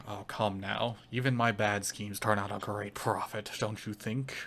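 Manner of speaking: crime lord's lightly Irish wheedling; hint of an Irish-accented schemer; accidental Irish accent. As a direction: coax them in a slight Irish lilt. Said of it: "that's the best Irish accent".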